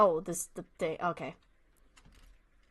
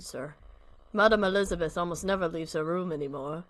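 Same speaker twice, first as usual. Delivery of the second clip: put-on old butler voice; 4 semitones lower than usual.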